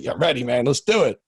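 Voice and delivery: hyping himself up before a meeting; psyched-up pep talk to the mirror; pumped-up self-talk. Retold or imitated. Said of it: "I used to have to get pumped up for it".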